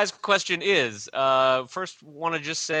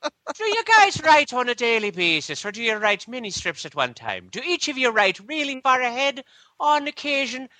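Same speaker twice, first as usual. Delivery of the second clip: mock Irish; 4 semitones higher than usual. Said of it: "going off on Irishisms".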